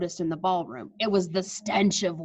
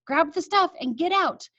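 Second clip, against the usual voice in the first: grandmother urging; 7 semitones higher than usual. Acted. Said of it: "my grandmother's voice".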